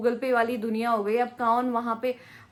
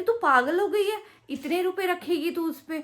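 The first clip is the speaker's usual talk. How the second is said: mocking drummer; 8 semitones higher than usual. Retold drummer scolding her.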